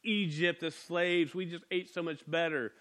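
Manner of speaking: mild mock whine; lightly acted whiny moan; whining complaint. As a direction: grumble like people pining for what they lost. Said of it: "whining, going".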